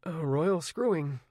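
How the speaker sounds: a hint of a mild, calm teen; said mildly. A narrator's reading. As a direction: repeat it calmly, unbothered. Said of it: "he said mildly".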